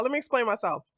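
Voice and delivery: whispered under the breath. Real, not acted. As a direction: repeat it as a hush. Repeated in whisper.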